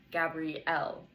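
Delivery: Gabrielle with the stress on the final syllable, elle; stress on the last syllable. Shown as a demonstration. Interviewer showing where a name's stress falls, final syllable stressed. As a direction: lean on the end of Gabrielle. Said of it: "the stress is on the final syllable".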